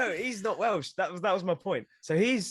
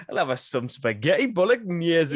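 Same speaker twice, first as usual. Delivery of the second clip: lightly put-on Geordie order; Geordie accent; 3 dB louder than usual. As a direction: try it in a mild Geordie accent. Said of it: "Geordie, 'cause when I heard it".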